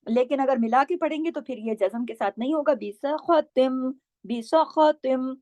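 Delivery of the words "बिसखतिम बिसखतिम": बिसखतिम slow, with a heavy kha; tajweed recitation. Shown as a demonstration. Teacher showing joined reading, slow recitation. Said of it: "खा भी मोटा पढ़ा जाएगा".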